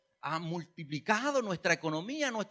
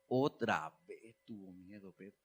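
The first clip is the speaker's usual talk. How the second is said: exasperated disbelief; 12 semitones lower, 6 dB quieter than usual. Acted. Preacher reacting to Peter's fear like the facepalm meme, exasperated.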